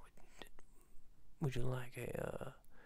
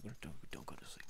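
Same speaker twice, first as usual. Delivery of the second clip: urgent whisper; 8 semitones lower, 6 dB quieter than usual. Acted. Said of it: "Wait, no, no, don't".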